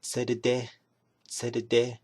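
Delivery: tserede said carefully with a clear middle e; Navajo word for purple. Shown as a demonstration. Teacher showing viewers Navajo purple, clearly. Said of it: "we call it".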